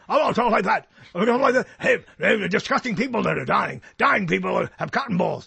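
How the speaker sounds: throaty rant with misplaced emphasis; amateur impersonation of a ranting radio host; Alex Jones. Acted. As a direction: stress all the wrong syllables, raspily. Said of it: "You're putting emphasis on all of the wrong syllables".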